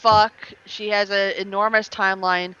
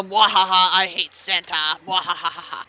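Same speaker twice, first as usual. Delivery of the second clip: evil villain laugh; 4 semitones lower, slower than usual. Pretend. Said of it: "there to go".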